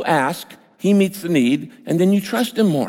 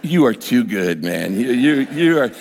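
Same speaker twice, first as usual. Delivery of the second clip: laughing and crying; 5 semitones lower than usual. Retold or imitated. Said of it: "I started laughing and crying at the same time".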